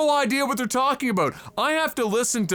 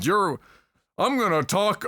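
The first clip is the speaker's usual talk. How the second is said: failed Perk impression. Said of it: "I didn't get the Perk right".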